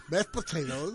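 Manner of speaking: lisping without front teeth. Real, not acted. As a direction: toothless lisp. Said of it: "with a horrible lisp".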